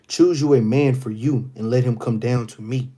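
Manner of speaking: loud, calling the enemy out across the valley; booming challenge. Acted. Goliath calling out Israel's army, loud and daring. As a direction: read it like a giant daring an army.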